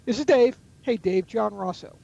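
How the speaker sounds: level, falling, confident phone greeting; authoritative. Shown as a demonstration. Salesman demoing the authoritative, even-status phone greeting. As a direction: settle each phrase down with equal footing. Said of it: "a little bit more equal business stature, a little bit more authoritative".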